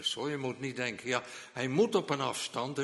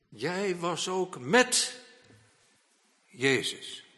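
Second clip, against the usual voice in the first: accusing maid; 6 semitones higher, 6 dB louder, much slower than usual. Acted. Servant accuses Peter of knowing Jesus.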